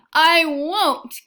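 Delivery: put-on a little girl shouting no; sputtering refusal. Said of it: "Kirsty sputtered".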